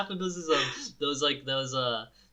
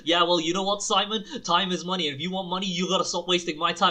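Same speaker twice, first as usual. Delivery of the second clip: raised, louder mock tycoon voice on the phone; mock serious businessman; 4 semitones higher, 6 dB louder than usual. Friend faking a phone call, hammed-up serious tone. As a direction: play a pompous man on a fake call.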